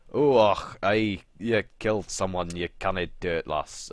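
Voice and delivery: mock Scottish accent; Scottish bro. Bro on the walkie-talkie reacting to her kill, mock Scottish. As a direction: put on a rough-and-ready Scottish accent.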